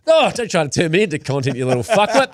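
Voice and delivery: put-on a grumpy old man telling off his son; mock angry dad. Grumpy old man snaps at his son, mock angry. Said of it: "You go".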